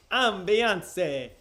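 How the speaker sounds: loud mock-Italian exclamation; Italian guy. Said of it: "sounds like an Italian guy saying".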